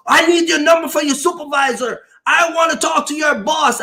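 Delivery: retold angry demand. Boss demanding the driver's supervisor, mock indignant. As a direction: demand it with mild mock outrage.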